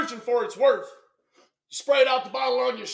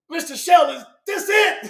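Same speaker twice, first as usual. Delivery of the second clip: mock question; 4 semitones higher, 5 dB louder than usual. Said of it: "was like".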